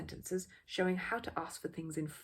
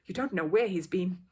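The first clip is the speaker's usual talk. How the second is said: put-on louder warning to her boy; fussy mother; 7 dB louder than usual. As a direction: pull the child back. Mother warns small boy.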